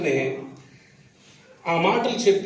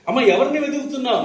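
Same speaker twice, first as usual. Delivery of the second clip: Jesus asking; 6 semitones higher, faster than usual. Retold or imitated. Jesus voiced asking Mary.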